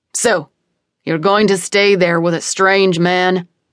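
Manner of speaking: gruff, booming, barking voice. A father speaks to his child, in a gruff, booming voice. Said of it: "my dad's gruff voice booms in my ear".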